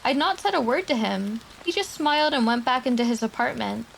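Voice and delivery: a lightly held, measured horror-story reading. Acted. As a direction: read it like a creepy post to chat. Reads reddit horror story aloud.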